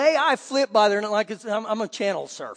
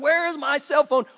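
higher-pitched mock yell; screaming; 5 semitones higher than usual. Mother imitated screaming at her husband for her phone, mock yell. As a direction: demand it like a frantic wife. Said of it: "Screaming to her husband".

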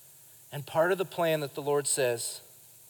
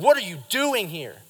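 harsh rebuke; 4 dB louder than usual. Shown as a demonstration. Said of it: "I don't believe that God was trying to slam him".

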